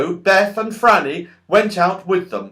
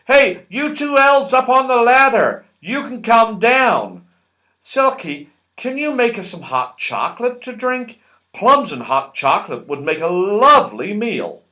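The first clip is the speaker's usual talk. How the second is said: higher, louder cheerful host; Moonface voice; 4 semitones higher, 4 dB louder than usual. A narrator's reading. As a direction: hand out orders brightly. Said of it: "Moonface giving orders".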